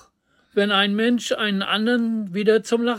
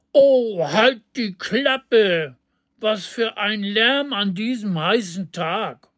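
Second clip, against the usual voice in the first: scolding. Acted. A neighbour woman scolding the street singer, annoyed. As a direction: snap at the noise, fed up. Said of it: "schimpfte eine Frauenstimme".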